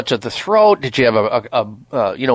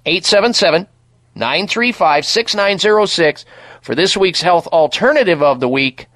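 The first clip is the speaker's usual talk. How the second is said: ad read; 3 semitones higher than usual. Acted. Radio product plug.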